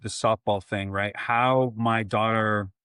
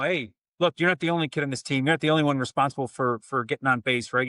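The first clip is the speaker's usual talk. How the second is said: coach barking; 4 semitones higher, faster than usual. Retold or imitated. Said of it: "knife hands and screaming at her".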